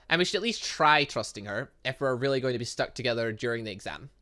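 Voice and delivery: ordinary talk, nothing marked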